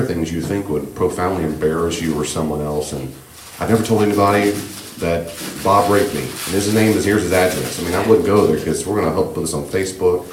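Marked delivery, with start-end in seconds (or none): 3.6-7.8 mock overshare. Teacher mocking an oversharer, lightly voiced. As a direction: play someone oversharing too much.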